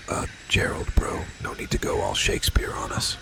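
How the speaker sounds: hushed unvoiced whisper throughout. Whispering to his co-star Gerald. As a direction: breathe every word without voice.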